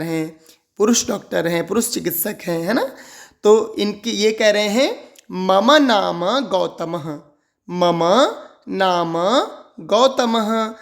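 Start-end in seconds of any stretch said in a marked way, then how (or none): 5.3-10.7 मम नाम गौतमः said very slowly, then split with pauses; syllables spaced out for repeating; word by word. Shown as a demonstration. Teacher modelling the doctor's line slowly. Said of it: "स्पष्ट उच्चारण".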